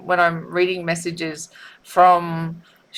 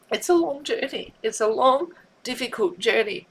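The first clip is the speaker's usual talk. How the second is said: tearful; 6 semitones higher than usual. Real, not acted. Speaker crying over messages.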